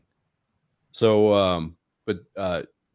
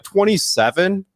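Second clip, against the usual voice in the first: slow, much higher, rising disbelief; incredulous twenty-seven; 10 semitones higher, 6 dB louder, slower than usual. Retold or imitated. Friend retelling a buddy's absurd camera count, stunned and slow. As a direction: stretch it out like you can't believe it. Chris's reply quoted in disbelief.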